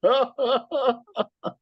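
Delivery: talking through real laughter; host reacting to the poem's punchline, laughing through words. Real, not acted. Host laughing after the poem.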